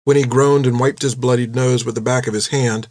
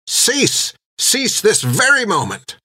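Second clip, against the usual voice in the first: high commanding nun, slow on the second cease; stern nun's order; 9 semitones higher, slower than usual. A narrator's reading. Nun breaking up a courtyard fight, stern high command. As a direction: stop them cold, every word an order. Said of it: "Hilda ordered".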